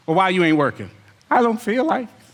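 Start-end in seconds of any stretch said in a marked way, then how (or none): 1.3-2.2 a hint of a whiny, stammering excuse-maker; mock lazy excuse. Preacher mimics lazy member dodging work, mild mock whine.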